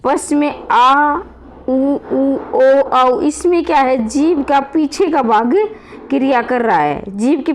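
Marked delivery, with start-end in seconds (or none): 0.7-3.2 teacher models back vowels आ and औ for pupils; आ, उ, ओ, औ each said clearly and separately; vowel demo. Shown as a demonstration. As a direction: back vowels आ, उ, ओ, औ sounded out one by one. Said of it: "पश्च, ये देखें".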